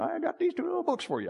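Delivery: mock sweet old lady. Old lady offers the new pastor two books, lightly voiced and sweet. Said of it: "and she says".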